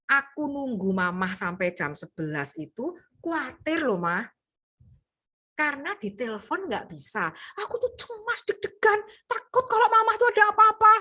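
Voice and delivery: rising worried plea, climbing high; showing worry. Shown as a demonstration. Child tells mom how worried it felt, growing anxious. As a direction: let the anxiety show. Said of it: "tunjukkan perasaan".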